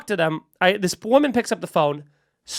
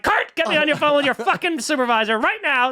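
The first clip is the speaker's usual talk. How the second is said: mildly raised, exasperated retelling; mock-irate caller, pitched up; angry demand; 4 semitones higher than usual. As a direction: order the agent, at the end of patience. Acted angry demand to agent.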